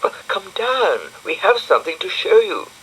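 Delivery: put-on high bright little girl voice; high-pitched girl character; Florence's voice. A narrator's reading. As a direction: lift into a girlish squeak for Florence.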